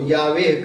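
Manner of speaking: यावे said in two syllables, "yaa-ve"; Hebrew pronunciation. Shown as a demonstration. Explaining the name to the co-host, यावे in its Hebrew pronunciation. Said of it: "यहूदी उच्चारण है उसका".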